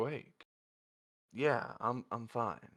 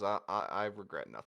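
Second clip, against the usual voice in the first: hesitant start, then mildly firm; almost firm; 3 semitones lower than usual. Acted. Zenith answering the teasing about regret, almost firmly. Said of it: "Zenith almost firmly says".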